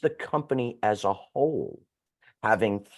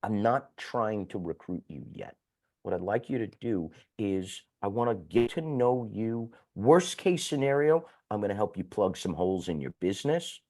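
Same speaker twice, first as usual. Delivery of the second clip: reassuring pitch. Shown as a demonstration. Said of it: "You make it clear to them".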